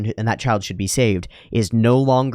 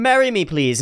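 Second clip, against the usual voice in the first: pleading proposal; 9 semitones higher than usual. Retold or imitated. Cliff begging the princess on the ground, higher desperate plea. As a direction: beg her to marry you from your knees. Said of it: "on the ground going".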